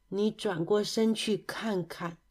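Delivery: slow, soft, resigned request; quiet and slow, after a sigh. A narrator's reading. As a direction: tell them wearily to look. Sighing friend points at the mess.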